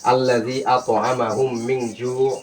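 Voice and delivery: slow recitation with drawn-out vowels; Quran recitation. Shown as a demonstration. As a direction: recite the verse slowly, holding each nasal and long vowel. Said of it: "একসাথে". (ধীরে টেনে কোরআন তিলাওয়াত)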